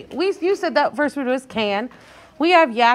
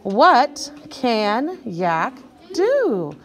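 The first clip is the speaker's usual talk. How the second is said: very slow word-by-word reading; read-along; much slower than usual. Shown as a demonstration. Teacher leading children reading together, slow word-by-word read-along. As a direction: read it one drawn-out word at a time for beginners. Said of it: "Ready and read".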